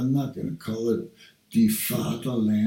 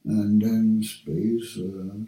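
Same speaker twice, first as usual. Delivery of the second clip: spelling it out; 3 semitones lower, 6 dB louder, slower than usual. Shown as a demonstration. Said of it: "just say".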